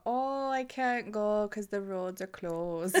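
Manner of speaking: slow mock Canadian, laughing; lightly voiced Canadian; Canadian impression. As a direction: drawl it like a snowed-in Canadian. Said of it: "talking about being in Canada".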